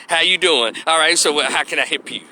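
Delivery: breezy, unpolished counter greeting; pleasant country hood. Retold or imitated. A hint of a fast-food cashier greeting a customer. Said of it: "pleasant country, hood".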